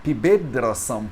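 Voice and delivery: slow pibedrasam with voiced D; D joined to R. Shown as a demonstration. Teacher reads the written form, pibedrasam with D. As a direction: slowly run D into R in pibedrasam. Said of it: "tá escrito pibed".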